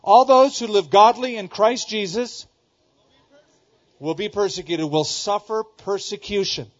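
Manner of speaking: preacher booming the verse when nobody joins in; loud recitation. Real, not acted. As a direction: call it out like a rallying cry. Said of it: "does anybody know that verse?".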